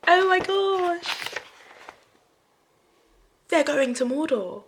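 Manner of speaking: stunned outburst; loud stunned cry; shocked. Real, not acted. Shocked plot reaction.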